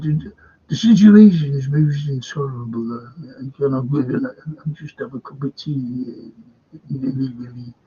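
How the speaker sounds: lightly voiced royal, loud at the start; a hint of Prince Charles complaining; mild mock royal voice; Prince Charles impression. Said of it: "Prince Charlie".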